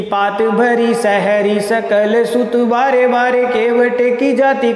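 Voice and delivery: slow, metrical chant-like recital; verse recitation. Shown as a demonstration. Teacher giving students a kavitt example, measured verse recitation. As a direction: recite it in steady measured beats, drawing out syllables.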